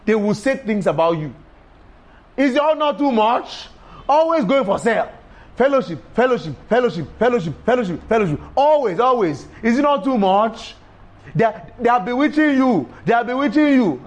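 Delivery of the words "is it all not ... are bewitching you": higher, sing-song mockery of complaints; a mocking higher voice; mocking critics. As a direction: imitate nagging critics.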